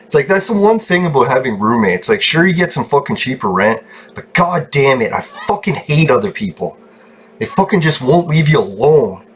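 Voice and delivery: real frustrated venting; exasperated grumbling; pissed-off venting. Real, not acted. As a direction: vent your irritation at the roommates. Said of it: "fucking pissed off mood".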